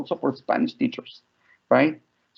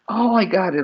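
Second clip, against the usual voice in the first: put-on child's realization; 5 semitones higher than usual. Imitates daughter finally getting it.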